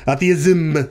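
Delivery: a tentative go at French pronunciation; attempted French accent. Shown as a demonstration. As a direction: try the word in a French accent. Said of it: "the French would pronoun-, pronounce that".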